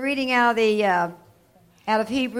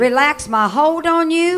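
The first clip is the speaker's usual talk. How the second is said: loud, ringing declaration for the church to echo; emphatic call to repeat; 4 semitones higher, 6 dB louder than usual. Shown as a demonstration. Preacher leading the church in a loud declaration. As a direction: lead the congregation, each word hammered. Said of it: "say this with me".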